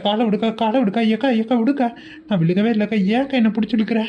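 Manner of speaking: mock panic while being dragged; panicked protest. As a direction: plead urgently to be let go. Being pulled down by the leg, protesting.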